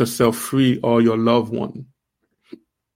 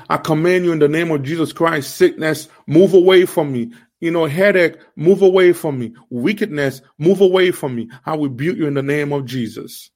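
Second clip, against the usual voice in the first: forceful, raised prayer rebuking sickness; commanding rebuke; 3 semitones higher than usual. Pretend. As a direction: command the sickness away with authority.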